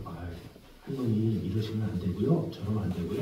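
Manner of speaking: soft, low imitation of a patient clerk; lightly acted soothing; gentle coaxing. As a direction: coax an elderly visitor quietly. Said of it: "잘 얼르고".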